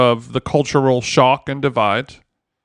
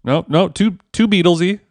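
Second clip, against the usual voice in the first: laughing; 4 semitones higher than usual. Real, not acted. Laughing at own bad accent.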